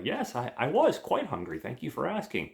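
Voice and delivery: put-on high, prim girlish thanks; awkward girl. Girl voiced in retold scene.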